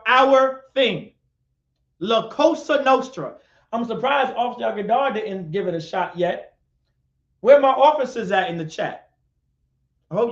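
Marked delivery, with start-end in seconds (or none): none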